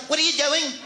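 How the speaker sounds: high, put-upon woman voice; mock indignant girlfriend; annoyed wife. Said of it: "And she'll be like".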